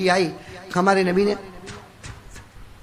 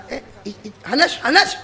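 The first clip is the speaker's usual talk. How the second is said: calling out; 4 semitones higher than usual. Acted. Prophet calls back departing companion.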